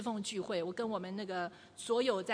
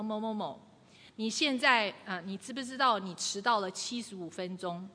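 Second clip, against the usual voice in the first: calm statement. Shown as a demonstration. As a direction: state the fact calmly, no blame. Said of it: "那第一个呢，你要告诉他". (平静地陈述事实)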